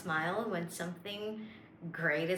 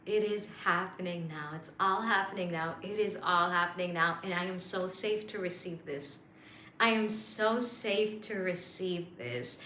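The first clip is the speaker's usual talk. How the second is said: calm affirmation. Shown as a demonstration. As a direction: sink into it and believe it. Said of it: "feel this".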